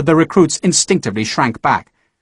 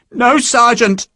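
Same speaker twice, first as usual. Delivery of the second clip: high, louder tearful reply; louder forced answer; 10 semitones higher, 4 dB louder, slower than usual. Acted. Marriott forced to answer the sergeant louder, near tears. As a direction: answer loud enough to satisfy him. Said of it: "I can't hear you".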